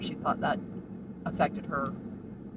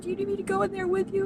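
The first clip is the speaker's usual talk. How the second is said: gentle offer; 13 semitones higher, faster than usual. Retold or imitated. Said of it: "I said".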